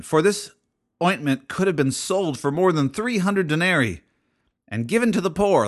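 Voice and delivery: mock-indignant scolding reading; indignant reread. Shown as a demonstration. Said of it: "Let me read that again".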